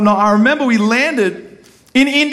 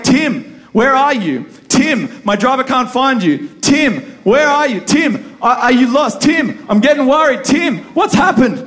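higher, building to a mock worried shout; worried calls; 5 semitones higher, slower than usual. Hotel manager's mock worried texts, building to a shout. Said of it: "Emil is like".

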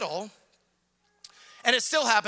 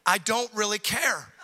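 loving God. Retold or imitated. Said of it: "he looks at us lovingly and says".

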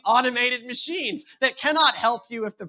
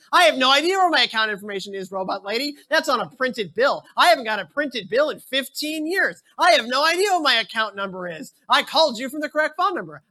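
louder, fed-up argument with a robot; exasperated caller; 3 semitones higher, 4 dB louder than usual. Retold or imitated. Caller scolding the robot lady, fed-up and loud. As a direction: lose patience, mock indignation.

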